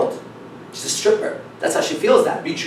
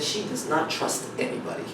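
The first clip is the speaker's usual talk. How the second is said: whispered aside; 12 dB quieter than usual. Retold or imitated. Reenacted confiding line.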